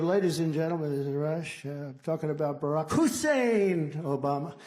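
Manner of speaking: hint of a talk-radio opener; Rush Limbaugh. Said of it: "He goes".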